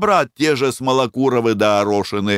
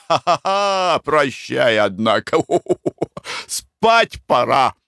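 a light chuckle running through the farewell; laughing goodbye; 6 semitones higher, slower than usual. A narrator's reading. Dmitry laughs off his friend, a light chuckle. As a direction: laugh it off and head to bed.

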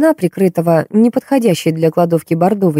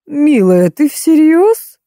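much higher and louder, slow outraged crone; indignant old woman; 10 semitones higher, 4 dB louder, much slower than usual. A narrator's reading. Faina outraged at Marta, high, loud and slow. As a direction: rear up in outrage. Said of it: "возмутилась Фаина".

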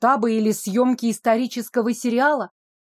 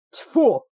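scornful snort. Acted. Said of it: "Вабу в ответ лишь фыркнула".

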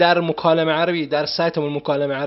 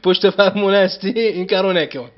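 raised, louder telling-off with real concern; firm scolding; 4 semitones higher, 5 dB louder than usual. Real, not acted. Teacher scolds student for listening while driving, raised firm voice. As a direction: scold him like a worried teacher.

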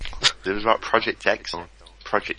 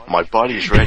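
Reggie impression; 7 dB louder than usual. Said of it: "You can't do his accent".

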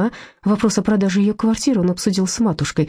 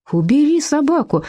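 вопль; 10 semitones higher than usual. A narrator's reading. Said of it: "вопил брат Курищева".

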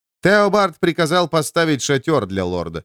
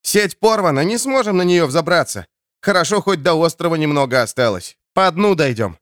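shouting; 4 semitones higher than usual. Acted. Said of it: "крикнул ему на ухо Кит".

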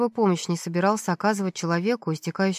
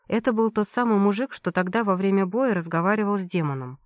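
ordinary delivery

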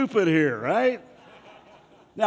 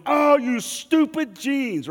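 high, drawn-out exasperated whine at the jeans; mock frustrated outburst; 9 semitones higher, 5 dB louder, slower than usual. Pastor mimicking someone cursing their jeans, high exasperated whine. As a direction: huff at the broken button like a fool. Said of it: "and you go".

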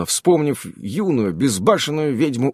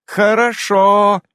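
drawn-out, higher, blissful exhalation of freedom; blissful contentment; 7 semitones higher, 5 dB louder, much slower than usual. A narrator's reading. Irene answers the whole world, free of problems, blissful. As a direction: savour the word slowly, free of all worries. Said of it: "с непередаваемым ощущением свободы от жизненных проблем".

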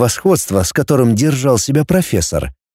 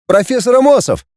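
much higher, excited clamor; 11 semitones higher than usual. Acted. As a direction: call out over the crowd. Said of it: "загалдели юберы".

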